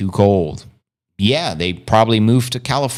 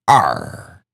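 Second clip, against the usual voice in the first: pirate growl; 9 semitones lower than usual. Pretend. Talking about pirates, Jack Sparrow.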